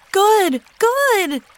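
high, loud cheer of relief; excited cry. A narrator's reading. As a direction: shout it out, thrilled the thorn is out. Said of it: "cried Violet".

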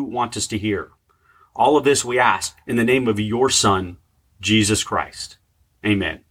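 earnest spoken prayer. Acted. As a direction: pray it humbly and sincerely. Leads a prayer.

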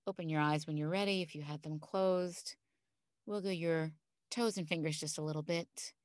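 calm grounding exercise. Acted. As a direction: guide them gently into calm. Leads a guided visualization.

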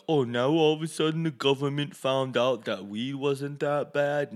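gently mocking the gullible crowd; mock naive public. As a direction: mimic people making a sudden discovery. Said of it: "that's why people are like".

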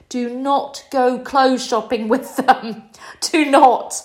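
slow, forceful "do not", punched hard; emphatic warning. Real, not acted. Urgent warning to the audience.

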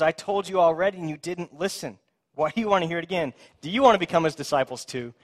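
mild sarcasm. Acted. Healed man throwing it back at Pharisees, mild sarcasm. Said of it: "just a little bit of, of sarcasm".

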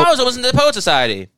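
hammed-up high, loud voice of a boastful YouTuber; Jamie Kennedy. Mocking a comedian's YouTube brags, silly high voice. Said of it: "YouTube channel where he's like".

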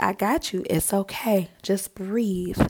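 gentle, softened retold reassurance; calm a nervous swimmer down; soothing reassurance. Instructor to panicking swimmer in the pool, soothing.

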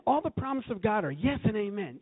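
high, fired-up declaration of faith; excited affirmation. Acted. Acts out own excited affirmations.

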